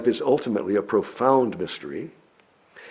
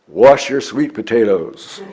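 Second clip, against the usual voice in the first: louder and slow, laughing on each word; slow laughing message; 7 dB louder than usual. Acted. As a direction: hand down the message, amused. Delivers the monkeys' message.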